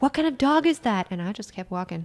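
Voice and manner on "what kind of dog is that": mock woman's scream, higher and louder. Retelling how a woman screamed after the speaker: imitating a woman screaming. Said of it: "the woman screamed after me".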